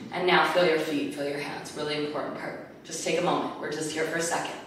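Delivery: soft, slowed-down calming cue; quiet and calm. Shown as a demonstration. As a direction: settle the voice right down, softly. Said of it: "I want you to feel the contrast".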